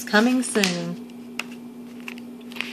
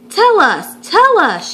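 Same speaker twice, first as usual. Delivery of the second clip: higher, louder eager chant; crowd shouting; 10 semitones higher, 6 dB louder, slower than usual. Acted. Crowd pressing the groundhogs for a forecast, loud eager shout. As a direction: demand it from the crowd. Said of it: "shouted the crowd".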